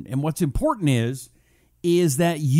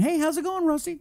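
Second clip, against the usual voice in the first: quoted greeting; 10 semitones higher than usual. Retold or imitated. Reads a viewer's greeting aloud.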